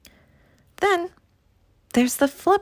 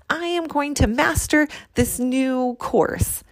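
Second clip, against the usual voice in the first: higher, put-on resolution voice; mock goal declaration; 5 semitones higher than usual. Coach quoting her own third intention, mock declaration. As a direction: mimic yourself proclaiming one more goal.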